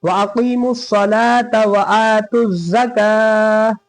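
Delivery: slow recitation, ending with a stop on ज़का; stopping demo. Shown as a demonstration. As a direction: recite slowly and pause at ज़का. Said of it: "तब इसको ऐसे पढ़ेंगे".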